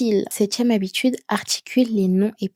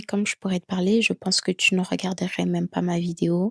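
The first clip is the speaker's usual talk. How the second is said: monotone; 2 semitones lower, 4 dB quieter than usual. Shown as a demonstration. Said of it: "parler d'une façon monotone".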